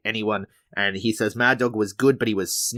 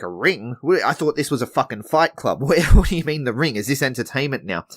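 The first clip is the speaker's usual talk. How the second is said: confused; 4 semitones higher, 3 dB louder than usual. Retold or imitated. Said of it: "Mad Dog gets all confused".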